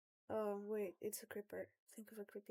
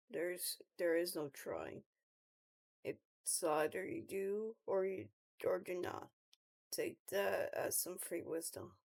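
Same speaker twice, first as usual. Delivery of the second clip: Pierce; 5 semitones lower than usual. Acted. Pierce gives advice, leaves.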